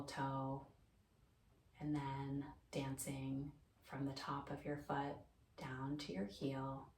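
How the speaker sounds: calm, unhurried meditation guidance with long pauses; guided meditation. Acted. Teacher guiding listeners lying down through mindfulness, calm guided meditation. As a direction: ease them gently through a body scan, pausing between phrases.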